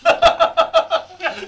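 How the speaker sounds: sudden high laugh; burst of laughter. Real, not acted. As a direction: laugh out loud. Laughs at bad score.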